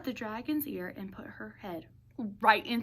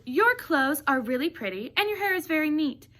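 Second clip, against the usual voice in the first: louder, mock-sweet compliments that land hard on the final insult; scolding Elizabeth; 3 semitones higher, 6 dB louder than usual. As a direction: build up the praise, then slam it down. Elizabeth scolds prince in story.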